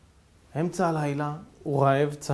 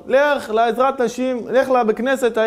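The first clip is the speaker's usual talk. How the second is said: loud, slow call from a window; shouting; 7 semitones higher, 6 dB louder, slower than usual. Acted. Rabbi shouting orders from his window, loud and slow. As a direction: shout each order slowly and loudly. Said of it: "הוא צועק לו מהחלון".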